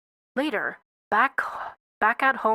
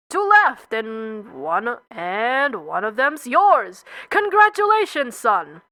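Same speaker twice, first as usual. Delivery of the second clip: cheery clerk; slower than usual. Acted. Job clerk hands out jobs.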